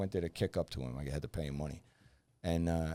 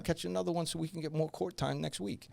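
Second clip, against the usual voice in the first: mocking veteran cops, pitched much higher; incredulous higher mock of the old-timers; imitating salty old cops; 9 semitones higher than usual. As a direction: ham up the scoffing old narcotics guys. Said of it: "they're looking at me going".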